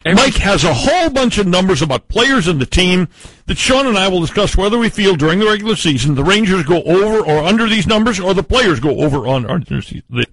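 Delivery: mouth full. Real, not acted. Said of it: "he's still choking it down".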